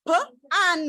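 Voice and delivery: "P and" as puh, then an, in separate bits; chunked sounding-out. Shown as a demonstration. Teacher shows pupils how to chunk a long word, "P and" sounded puh... an. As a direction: split "P and" into first sound and rest. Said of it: "you chunk this into two".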